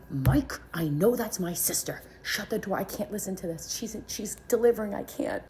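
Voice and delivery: high, urgent retold distress; distraught insistence. Sister begging husband to shut the door, distraught.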